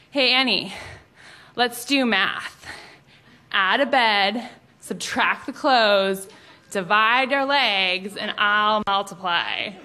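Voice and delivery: slow, smarmy pickup line delivery; cheesy pickup line. Retold or imitated. Basketball star flirting with classmate, slow smarmy pickup line. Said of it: "he says".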